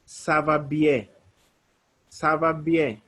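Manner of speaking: Ça va bien slowly and clearly; slow model. Shown as a demonstration. Teacher modelling the reply slowly. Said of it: "Or you can say".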